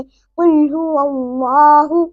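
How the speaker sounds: कुल हुवल्लाहु with a full laa held one beat; heavy, lengthened Allah. Shown as a demonstration. Teacher models lengthening the laam, full heavy हुवल्लाहु. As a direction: stretch the rounded laa in हुवल्लाहु. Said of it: "इस तरह से".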